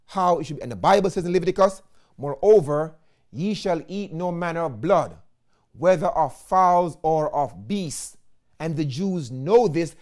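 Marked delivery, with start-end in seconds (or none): 2.2-8.2 scripture reading. Acted.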